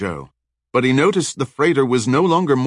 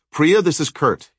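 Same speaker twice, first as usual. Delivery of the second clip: Kurt calling over the radio, raised and urgent; 7 semitones higher, 3 dB louder than usual. Acted. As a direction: call out for your missing friend. Radio call.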